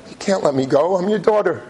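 lightly voiced pleading daughter, pitch lifting at the end; imitated tearful appeal; retold crying plea. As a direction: plead as a child to a father, mildly tearful. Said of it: "and she's crying".

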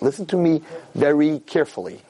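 slow, deliberate, every word weighted; stern father, slow. Retold or imitated. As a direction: imitate a father speaking slowly and gravely. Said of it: "This is exactly how he said it".

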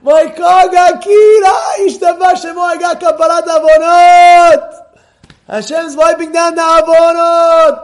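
high, loud, slow, ecstatic; overjoyed. Retold or imitated. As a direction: shout it out with joy. Joyful call to the rabbi.

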